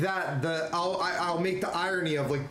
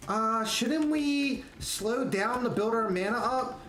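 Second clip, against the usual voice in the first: timid night elf; 5 semitones higher, slower than usual. Retold or imitated.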